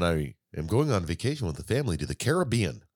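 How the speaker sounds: "Caribbean" as care-uh-BEE-un, stress on BE; third-syllable stress on "Caribbean"; American-style Caribbean. Shown as a demonstration. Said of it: "It just feels more American".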